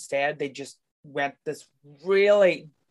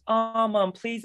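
put-on whiny teen Michael; 6 semitones higher, slower than usual. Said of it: "And he literally goes".

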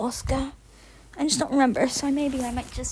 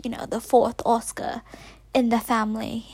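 quick explanatory whisper. Real, not acted. Explaining Oscar's name to listeners, whispered aside.

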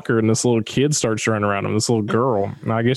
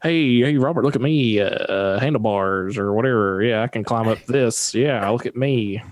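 mocking show-off. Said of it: "Dalton's over here, like, doing cartwheels".

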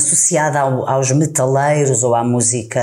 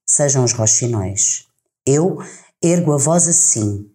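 poem reading. Acted. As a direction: read the verses with weight and pauses. Host reads Torga poem aloud.

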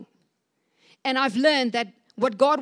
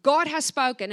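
commanding; 3 semitones higher, 4 dB louder than usual. Retold or imitated. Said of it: "now he's like".

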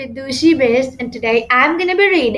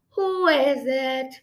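sleepy voice; much slower than usual. Acted. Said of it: "Billy asked in a sleepy voice".

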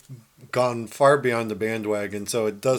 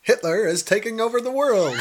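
1940s newsreel announcer; 10 semitones higher than usual. Pretend. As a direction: boom it like a wartime newsreel. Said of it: "a nineteen forties announcer".

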